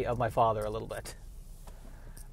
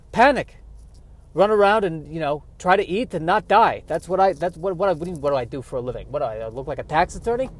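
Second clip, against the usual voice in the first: put-on Yiddish-accented squirrel; 3 semitones higher, 3 dB louder than usual. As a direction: snap back like an old kvetch. Squirrel character answers.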